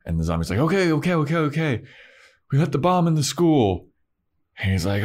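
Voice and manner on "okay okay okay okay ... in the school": caving zombie. Retold or imitated. Zombie caving under threat.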